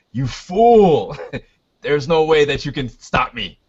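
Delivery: a touch of sneering villain; lightly voiced gloating villain. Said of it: "that was my villain voice".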